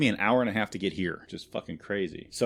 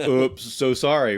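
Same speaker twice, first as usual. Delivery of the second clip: mocking fake apology; 4 semitones higher, 5 dB louder, slower than usual. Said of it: "They're like".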